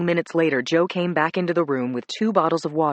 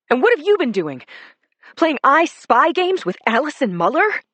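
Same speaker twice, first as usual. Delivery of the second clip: high, loud furious outburst; furious tirade; 7 semitones higher, 4 dB louder than usual. A narrator's reading. Wife rails at her husband who walked out, high loud fury. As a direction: keep hammering him, louder and higher. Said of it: "I kept going".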